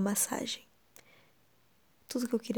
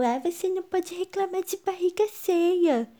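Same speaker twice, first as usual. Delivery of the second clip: high, loud whiny mocking voice; mock a nagging know-it-all; annoying person voice; 9 semitones higher, 4 dB louder than usual.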